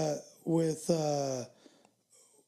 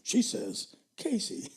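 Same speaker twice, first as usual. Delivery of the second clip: smooth radio countdown host; Casey Kasem voice. Retold or imitated. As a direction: read it like a radio DJ. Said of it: "I like to read, like, uh, Casey Kasem".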